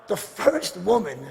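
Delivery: normal talking voice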